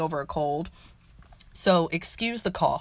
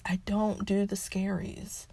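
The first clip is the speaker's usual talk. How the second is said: soft, slow, final repeat; quiet slow repeat; 8 dB quieter, slower than usual. Real, not acted. Refusing scary show, repeated.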